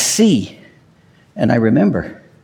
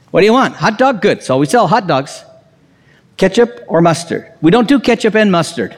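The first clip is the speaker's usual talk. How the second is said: impatient hot dog vendor; 4 semitones higher than usual. Acted. Acts out impatient vendor again.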